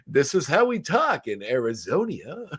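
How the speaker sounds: slow, drawn-out Matt Berry voice; Jackie Daytona line. Retold or imitated. Podcaster quoting Jackie Daytona, slow and drawn out. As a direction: drawl out Arizonia like Jackie Daytona. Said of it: "he's like".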